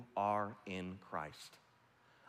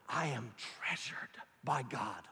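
whispered affirmation; slower than usual. Shown as a demonstration. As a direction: breathe it like a private vow. Affirmation spoken on waking.

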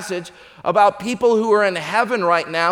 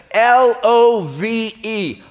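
spelled out slowly, letter by letter; slow spelling; 3 semitones higher, 4 dB louder, much slower than usual. Acted. Woman spelling for Peter, slow and deliberate.

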